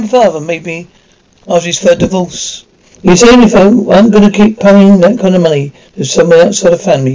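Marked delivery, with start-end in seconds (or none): 3.0-7.1 heated outburst. Acted. Heated argument about paying money.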